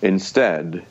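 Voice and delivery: calm, unhurried speech with long pauses; slow, deliberate pauses. Shown as a demonstration. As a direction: pause and speak with authority. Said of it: "I'm demonstrating the concepts as I'm talking about them".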